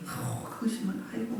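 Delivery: mock hesitant sigh. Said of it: "막 이래".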